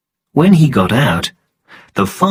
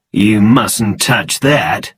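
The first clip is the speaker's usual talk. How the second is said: usual speaking voice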